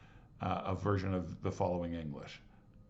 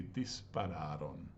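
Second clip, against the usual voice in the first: relaxed, softer Dispararon; unhurried, no rush; easy and breezy; 4 semitones lower, 6 dB quieter than usual. Shown as a demonstration. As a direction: say it like a sunny easy day. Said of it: "Pretend you're, you're Italian and it's a sunny day".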